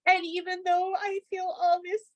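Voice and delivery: high, light child's voice imitating her ten-year-old; son's voice. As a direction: voice the little boy tapping sincerely. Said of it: "And he was like".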